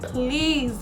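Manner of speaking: mildly pleading please; a touch of urgent appeal; retold begging. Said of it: "I was begging her".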